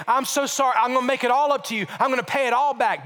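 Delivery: mildly acted desperate apology; urgent pleading. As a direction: plead and promise in a hurry. Acting out a debtor begging forgiveness.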